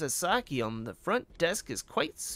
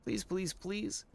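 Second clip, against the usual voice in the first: eager, pleading front-desk officer; 4 semitones higher than usual. Acted. Asking Ito to watch the front desk, pleading.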